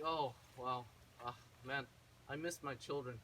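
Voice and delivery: low, soft, mildly mournful voice; glum father. Retold or imitated. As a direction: sigh it out like a lonely dad. Acted lonely father missing his children.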